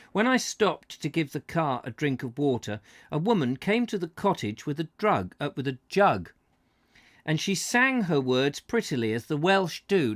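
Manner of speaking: measured read-aloud voice; story narration. Acted. Host reading a Cornwall travel book to viewers, narrating.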